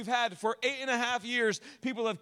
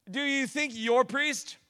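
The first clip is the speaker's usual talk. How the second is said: slow, halting, drawn-out question; the flubbed take that trails off mid-thought; stumbling slow take; 4 semitones higher, 5 dB louder, slower than usual. Real, not acted. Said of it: "laughs; Not that funny".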